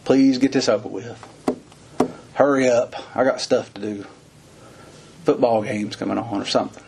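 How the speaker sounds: bored impatience. Retold or imitated. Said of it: "Instead of crying from the back pew".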